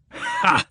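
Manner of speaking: sudden thunderous "Ha!"; booming laugh. Acted. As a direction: bark one huge royal laugh. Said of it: "laughed the king like a thunderclap".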